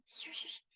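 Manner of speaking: "Shush, shush" as a soft whispered hiss; swishy sh sounds. Shown as a demonstration. Demoing the soft sh sounds of her speech. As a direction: breathe out "Shush" with airy sh. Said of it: "Do you hear it kinda".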